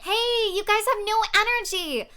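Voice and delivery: loud pumped-up hero voice; rally the group, loud and brash; loud hotheaded guy. Acted. Character scolds group loudly.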